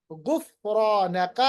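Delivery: very slow drawn-out chant; Quran recitation. Shown as a demonstration. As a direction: stretch each syllable as in tilawat. Teacher recites Quran words.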